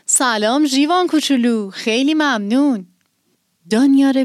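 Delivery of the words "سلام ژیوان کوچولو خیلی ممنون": cheerful, a bit higher hello; happy greeting. Acted. Villagers greeting little Zhivan, cheerful and bright. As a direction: greet the little girl gladly. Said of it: "با خوشحالی گفتن".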